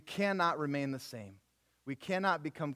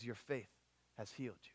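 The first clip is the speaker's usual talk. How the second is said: low, very soft pronouncement; tender hush; 5 semitones lower, 13 dB quieter than usual. Acted. Jesus telling the woman she is healed, tender hush. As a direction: speak it gently and quietly.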